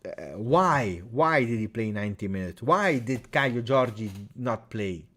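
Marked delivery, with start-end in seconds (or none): none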